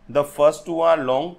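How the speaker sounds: very slow, word by word, like dictating notes; slow dictation. Shown as a demonstration. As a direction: read it out slowly so students can write it down. Reading out a definition slowly.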